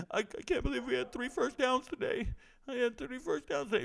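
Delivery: high, hammed-up tearful coach voice; mock crying coach. Coach at a press conference, mock tearful and high. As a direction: whimper it like a coach choking up over a small win. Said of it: "he was crying at every press conference".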